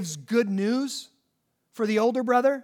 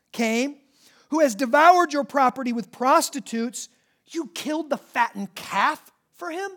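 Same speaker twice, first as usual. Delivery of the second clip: slow, spat-out "this son of yours"; older brother sneering at his father; indignant complaint; 4 semitones higher, 5 dB louder, slower than usual. Acted. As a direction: let the jealousy drip.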